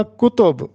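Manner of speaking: کتب said kutob, two rounded vowels; دو پیش والا تلفظ. Shown as a demonstration. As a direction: say کتب as ku-TOB. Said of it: "یہاں پر تلفظ ہوگا". (کتب کاف اور تے پر پیش، کُتُب)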